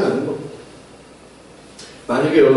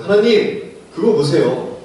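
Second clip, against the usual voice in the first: lightly voiced petulant Jonah; sulking Jonah complaining; 3 semitones higher than usual. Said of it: "요나가 이렇게 얘기하고 있어요".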